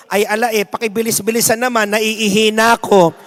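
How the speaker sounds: put-on Batangas-accented plea, Batangueño tone; mock Batangueño Christ, lightly voiced; Batangueño mutter. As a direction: grumble in Batangueño like a desperate actor.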